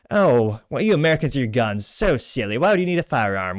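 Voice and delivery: lightly put-on British accent, mocking; a half-hearted smug British impression; bad British accent. Mocking smug Europeans in a mild British accent. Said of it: "it was a terrible accent".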